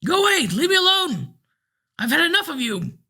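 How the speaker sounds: put-on old man snarls at the narrator following him; snarling old man. A narrator's reading. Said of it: "snarled at me".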